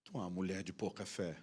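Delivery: low, quiet preacherly reproach; mock solemn rebuke. Husband rebuking his doubting wife, mock solemn. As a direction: drop deep and soft, mock-grave.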